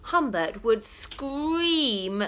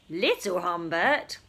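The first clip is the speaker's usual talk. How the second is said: sarcastic; 2 semitones lower than usual. Acted. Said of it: "a hint of sarcasm in his voice".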